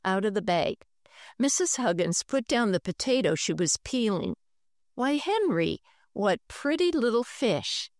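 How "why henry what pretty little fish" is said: lightly voiced pleased mother; a hint of mom's delight, higher. Mother admiring her son's guppies, lightly pleased.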